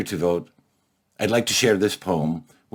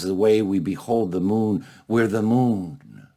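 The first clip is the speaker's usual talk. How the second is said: measured poem reading with weighty pauses; poetry recital. Acted. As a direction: recite it solemnly, letting phrase endings fall. Recites his poem to the audience.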